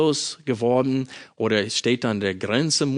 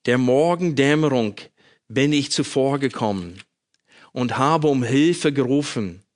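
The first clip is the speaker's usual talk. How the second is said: measured, solemn psalm reading with pauses; scripture reading. Acted. Preacher reading the psalm to his congregation, solemn and measured. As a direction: read the psalm aloud to the congregation. Reads Psalm aloud before sermon.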